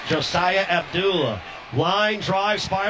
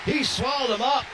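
excited call; 4 semitones higher than usual. Real, not acted. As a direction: sell the bear hug tackle. Big tackle on quarterback run.

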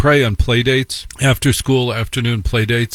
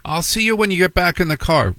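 mother; 7 semitones higher than usual. Retold or imitated. Mother voiced in story.

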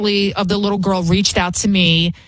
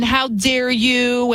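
mock indignation; 4 semitones higher, much slower than usual. Mocking indignation.

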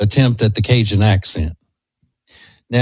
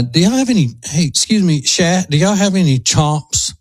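a Cajun local asking around the store; Cajun accent; 6 semitones higher than usual. Shown as a demonstration. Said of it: "you would say".

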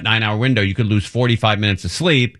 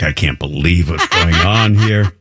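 laughing embarrassed daughter; 4 semitones lower, 3 dB louder than usual. Retold or imitated. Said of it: "She's like".

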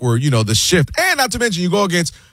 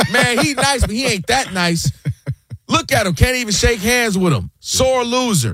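much higher, hammed-up voice of doubting fans; mock the doubters, pitched up and scornful; mocking critics; 6 semitones higher than usual. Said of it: "What's the first thing they say?".

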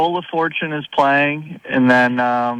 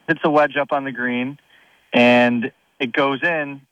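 ordinary delivery

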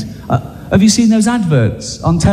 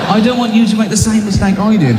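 mock earnest victim; 6 semitones higher than usual.

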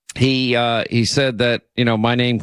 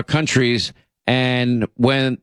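usual speaking voice

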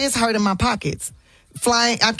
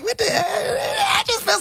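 mock crying; 14 semitones higher, much slower than usual. Quoting herself upset, cry heard.

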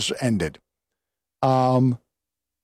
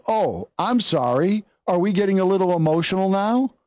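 higher-pitched mocking faux concern; goading mock apology; 6 semitones higher than usual. Congressman eggs her on across the chamber, goading. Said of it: "he kind of eggs her on".

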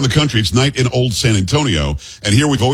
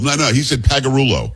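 ordinary talk

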